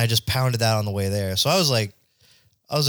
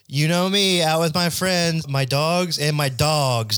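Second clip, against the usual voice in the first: mock dating profile; 4 semitones higher, slower than usual. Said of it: "every profile is the same".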